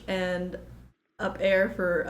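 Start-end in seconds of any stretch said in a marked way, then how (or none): 1.2-1.7 "up air" said instead of up there; dad's "up air", th dropped. Retold or imitated. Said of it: "My daddy says".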